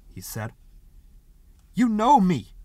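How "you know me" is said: much higher, louder outraged protest; a hurt, affronted shout; indignant cry. A narrator's reading. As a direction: insist he's been insulted. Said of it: "Parker cried indignantly".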